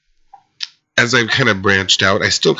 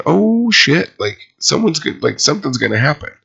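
retold alarm, pitch leaping up; mock panicked realization; alarmed thought; 5 semitones higher than usual. Recalled frightened thought at twelve.

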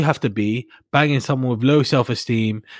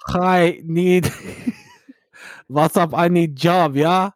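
mock Kosovan accent; 4 semitones higher, slower than usual. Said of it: "It's a Kosovan accent".

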